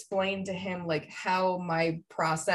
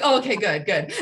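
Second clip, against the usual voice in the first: relieved laugh; 5 dB louder than usual. Retold or imitated. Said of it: "You're like".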